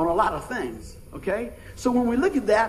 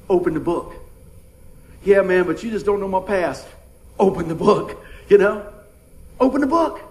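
urging; 4 dB louder than usual. Acted. Preacher urging the troubled man, building. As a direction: press it harder each time.

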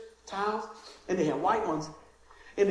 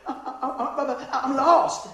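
mock scared stammer; 3 semitones higher, slower than usual. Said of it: "scared to pieces".

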